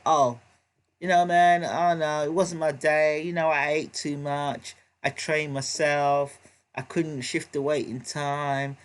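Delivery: slow, sorry-for-himself mock excuses; put-on pitiful fighter, drawn out. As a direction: imitate a beaten fighter dragging out his excuses. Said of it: "it sounded pitiful".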